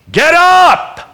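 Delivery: sudden high shout to rouse them. Acted. Preacher shouting at a sleepy congregation, loud and high. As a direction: bark it out to wake the room.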